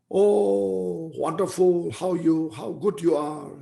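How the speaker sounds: calling out a long, high "Oh"; mock shout. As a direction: pretend to shout praise at a mountain. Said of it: "you, you just shout".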